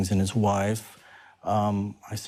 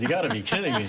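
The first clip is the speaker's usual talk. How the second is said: exasperated; 3 semitones higher, faster than usual. Retold or imitated. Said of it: "and I was like".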